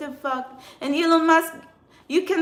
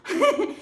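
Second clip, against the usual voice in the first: short laugh; 8 semitones higher than usual. Real, not acted. Laughing about egg prices.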